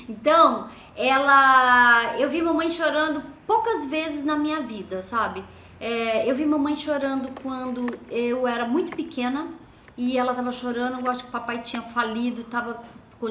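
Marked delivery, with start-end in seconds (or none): none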